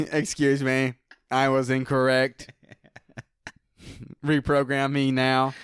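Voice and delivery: playful robot voice, laughing; laughing robot asking for reprogramming. Pretend. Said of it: "You sounded like a robot that made a mistake".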